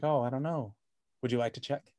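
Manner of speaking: quiet, sly and a bit sinister; a hushed, unsettling offer to go look; creepy Bob Vaughn. Retold or imitated. Host imitating the villain inviting Gyllenhaal to check, creepy and quiet. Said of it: "the way that Bob Vaughn's just like".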